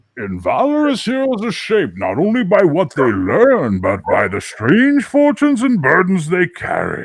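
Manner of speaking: big, loud, booming movie-villain voice, swinging pitch. Doing a rare voice bit for a listener, in a Bane voice. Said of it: "the closest you're going to get to a Bane voice".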